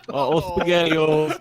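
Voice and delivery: put-on Sour Boy voice. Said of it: "the speaker's Sour Boy impression".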